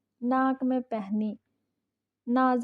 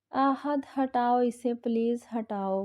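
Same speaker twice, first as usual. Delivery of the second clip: mildly raised panicked plea; panicked shriek. Acted. Wife jumping about, begging husband to remove lizard, mock panic. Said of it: "वो छलांगे मार मार कर चीख रही थी".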